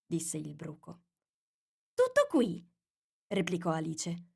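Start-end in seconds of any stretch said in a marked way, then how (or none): 1.9-2.6 holding back anger. A narrator's reading. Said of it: "soffocando come poteva la rabbia".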